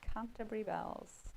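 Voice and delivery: "Canterbury bells" said slowly; slow, measured go at "Canterbury bells"; careful retry. Real, not acted. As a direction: try "Canterbury bells" with care. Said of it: "I'm butchering that as well".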